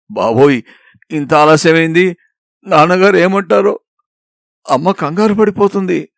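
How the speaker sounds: flustered worry. Acted. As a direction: fret that father will be angry. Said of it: "అతని కంగారు పెట్టేశాను".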